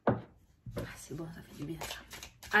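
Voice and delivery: breathy sigh after a sip of coffee; while sipping coffee. Real, not acted. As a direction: talk just after swallowing coffee. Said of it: "je bois mon café".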